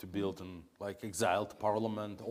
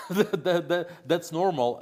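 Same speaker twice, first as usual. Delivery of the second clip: laughing; 5 semitones higher than usual. Real, not acted. Laughs while conceding different beliefs.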